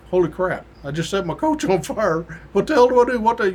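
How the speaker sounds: rising alarm, voice climbing; a retold rookie panicking mid-story; panicked rookie. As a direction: blurt it out as panic builds. Rookie panics, coach on fire.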